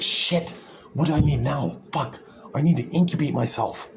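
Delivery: panicked Super Egg. Retold or imitated. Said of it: "Super Egg's like".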